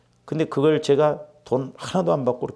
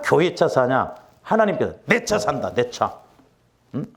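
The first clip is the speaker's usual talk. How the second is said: stern rebuke; 4 semitones higher, slower than usual. Retold or imitated. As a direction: scold like an indignant God. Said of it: "성령께서 뭐라고 말씀하시냐면".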